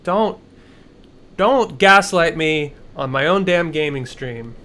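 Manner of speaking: loud, slow, hammed-up indignation; play-scolding the chat, drawn out and loud; mock outrage. Streamer scolding her chat over pronunciation, loud mock outrage.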